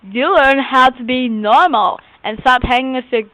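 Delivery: put-on lisping character voice; weird lisp. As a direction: talk with an odd, affected lisp. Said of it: "she talks with this weird lisp".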